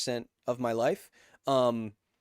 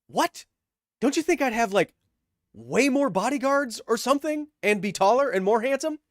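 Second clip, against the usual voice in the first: higher, louder put-on Australian voice; retold Australian accent; 10 semitones higher, 5 dB louder than usual. Retelling his Ren Fair reply, higher mock Australian. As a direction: replay his own Aussie reply, pitched up. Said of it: "what I actually said was".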